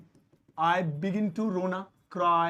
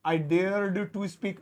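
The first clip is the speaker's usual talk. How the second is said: slow clear example; much slower than usual. Shown as a demonstration. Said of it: "teacher slows example for learners".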